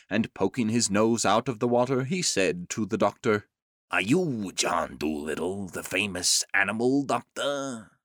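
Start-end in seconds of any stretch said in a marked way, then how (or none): 3.9-7.9 lightly voiced shark. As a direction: give the shark a slightly different voice. Shark speaks to the doctor.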